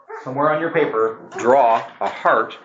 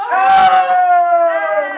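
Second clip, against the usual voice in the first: high surprised yelp; surprised shout; 7 dB louder than usual. Real, not acted. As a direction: yelp in shock. Shout at the race.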